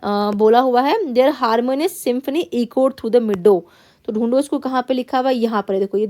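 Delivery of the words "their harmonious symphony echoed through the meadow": slow, careful classroom read-aloud; teacher reading a text to the class. Acted. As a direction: read the passage word by word, x0.3 pace. Teacher reads passage aloud.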